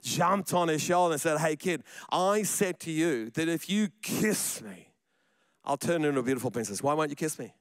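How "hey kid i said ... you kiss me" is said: mock mad frog. Mad frog scolds boy, mild mock anger. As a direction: drag it out like an irritated frog. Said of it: "now it's a mad frog".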